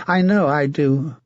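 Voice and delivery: a mad, leering knight taunting his captive; sinister, mocking menace; a twisted zealot savouring the moment; creepy villain. Sir Martin menaces Melisande.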